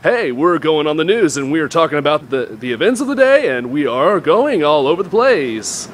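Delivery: swooping up-and-down anchorman delivery; mock a TV news anchor, pitch bouncing all over; newscaster voice. Mocking how newscasters talk for the viewers, hammed-up anchor voice. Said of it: "They kinda sound like".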